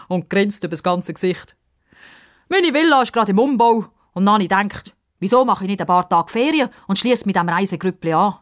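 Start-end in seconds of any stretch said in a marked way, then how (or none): 2.5-8.3 put-on jolly, loud old man voice; a chatty old man pleased with his plan; loud eager old man; cheerful old man.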